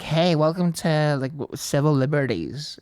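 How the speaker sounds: slow, lightly voiced hipster hostess; a hint of a laid-back hipster greeting; hipster server. Mock hostess greets bar customers, hipster server. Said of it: "very hipster".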